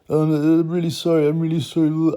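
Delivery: a nervous woman saying sorry twice; lightly voiced flustered young woman; mimicked apology. Mocking her apology.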